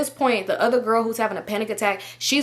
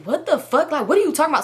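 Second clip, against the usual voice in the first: higher, incredulous retelling of his outburst; imitated freak-out; 6 semitones higher than usual. Boyfriend reacts to crack news over the phone, imitated freak-out. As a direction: mimic a boyfriend losing it. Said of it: "So he going crazy".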